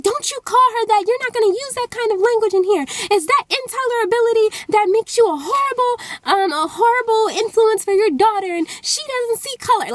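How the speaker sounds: high-pitched imitation of an upset mom; retold tearful telling-off, pitched well up; impassioned scolding. Mom defending the girl to the father, impassioned scolding. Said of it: "then the mom is crying".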